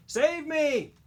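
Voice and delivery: put-on high, loud pleading old woman's voice; desperate old lady begging to be saved. A narrator's reading. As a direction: plead from the top floor window. Old lady trapped in fire.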